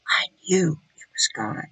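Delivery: hushed, reverent near-whisper; hushed awe. Real, not acted. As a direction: drop to a low, near whisper. Hushed awe at hearing God.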